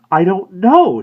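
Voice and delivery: high, startled I don't know; surprised. A narrator's reading. Woman answering the florist, high and surprised. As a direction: caught off guard. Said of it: "she said, surprised".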